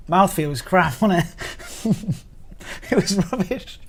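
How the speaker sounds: giggles breaking up the words; almost crying with laughter. Real, not acted. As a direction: deliver the verdict while losing it. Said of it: "almost crying with laughter".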